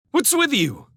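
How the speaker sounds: high-pitched indignant challenge; angry demand. A narrator's reading. Railsmith challenges Felix for firing, angrily. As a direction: demand it heatedly. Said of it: "demanded Railsmith angrily".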